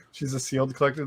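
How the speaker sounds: quiet repeat. Real, not acted. Repeating the joke to himself, softly. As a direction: drop it quietly as an aside.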